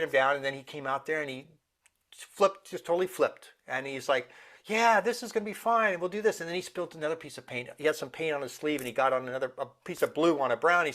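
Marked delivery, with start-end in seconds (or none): 4.6-6.4 higher-pitched, can-do voice; upbeat child's resolve. Retold or imitated. Son who flipped his mood over the paint, upbeat imitation. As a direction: imitate a kid who has cheered up. Son's upbeat turnaround, retold.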